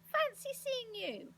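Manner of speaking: loud, drawn-out greeting rising high; delighted shouts. A narrator's reading. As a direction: greet an old friend at full voice. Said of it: "heard his friend's shouts".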